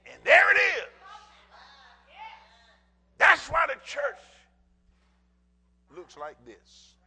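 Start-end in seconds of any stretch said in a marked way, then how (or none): 0.1-4.2 high, loud preaching climax; preaching shout. Acted. Pastor driving the point home to his congregation, shouting high. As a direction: shout it from the pulpit.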